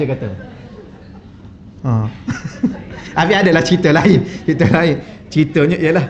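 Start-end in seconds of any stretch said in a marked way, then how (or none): 2.2-3.1 breathy unvoiced chuckle; quiet amused laugh under the breath; soft laugh. Real, not acted. Preacher chuckling softly with the audience, real laugh.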